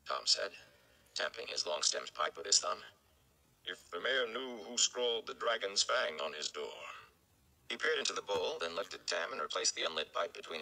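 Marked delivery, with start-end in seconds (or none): 3.6-6.9 put-on slow, knowing old storyteller voice; sly old gleeman. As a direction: drop the hint slowly, sly and unhurried. Gleeman hints slyly, pipe in hand.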